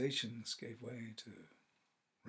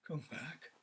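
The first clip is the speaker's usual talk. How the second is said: tender; 3 semitones higher, 7 dB quieter than usual. A narrator's reading. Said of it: "he said tenderly".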